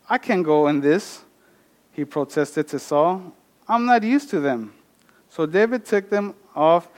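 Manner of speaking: steady Bible passage read aloud; scripture reading. Acted. Preacher reads First Samuel aloud, steady reading. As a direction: read the chapter to the congregation.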